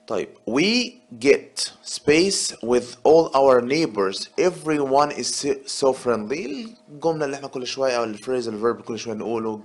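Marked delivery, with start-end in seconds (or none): 0.5-6.7 reading the sentence out slowly and carefully; slow exam read. Shown as a demonstration. Teacher to students, reading the exam sentence slowly. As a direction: read it like a test item for the class.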